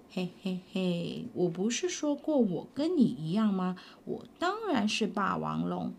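a hint of a low, sly dinosaur uncle; 霸王龙叔叔的低沉声音; lightly voiced T-rex. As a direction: chuckle low and knowing.

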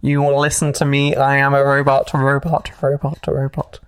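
robot voice. Pretend. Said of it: "I will continue to talk like a robot".

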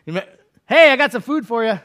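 bright, high call; angel offering food. Acted. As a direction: hail him cheerfully with food. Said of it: "an angel shows up and says".

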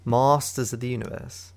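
playful put-on British accent. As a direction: say the title in mock British. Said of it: "start speaking in British accent".

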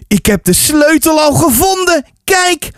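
put-on high, eager child's voice; proud boy. A narrator's reading. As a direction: show off a find proudly. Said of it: "vol trots".

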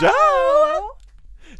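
high loud call. Real, not acted. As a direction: call his name across the room. Calling out to Joe.

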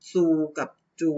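ซู with a clear s sound set against จู with a ch sound; sound contrast demo. Shown as a demonstration. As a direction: say ซู and จู distinctly apart. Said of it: "คำว่า ซู กับ จู".

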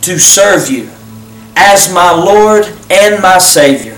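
earnest, unhurried prayer voice; leading a prayer. Acted. Pastor leading viewers in a salvation prayer, earnest and unhurried.

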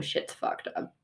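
muttered aside. Retold or imitated. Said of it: "and go".

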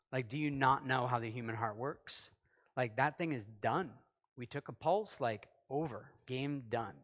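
skeptical disbelief. Pretend. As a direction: talk down to him, deadpan and matter-of-fact. Preacher voices his own skeptical reaction.

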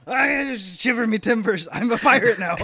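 put-on Scottish accent sliding into a pirate voice; failed Scottish accent turning pirate. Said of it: "was intentional or you realized it was going wrong".

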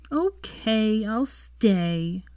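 put-on mildly sulky little girl; glum. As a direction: give in with a touch of childish disappointment. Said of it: "Rose said glumly".

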